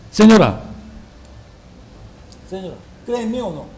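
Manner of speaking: a lightly voiced con man, fast and hushed; a touch of a sly con man asking for trust; swindler's pitch. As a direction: coax her like a smooth-talking swindler. Preacher acts out a smooth swindler.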